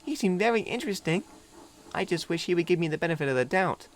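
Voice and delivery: a bit let down; wistful little diesel. A narrator's reading. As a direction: Philip telling Thomas he's sad. Philip sad high.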